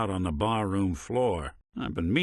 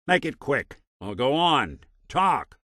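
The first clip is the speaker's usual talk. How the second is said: higher-pitched, curt prompting; impatient; 6 semitones higher than usual. Acted. Investigator grudgingly letting companion speak, impatient. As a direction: hurry them along testily.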